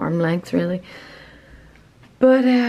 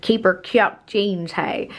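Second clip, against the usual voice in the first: put-on country Northern Irish accent; slower than usual. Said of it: "when you say it in a Northern Irish accent".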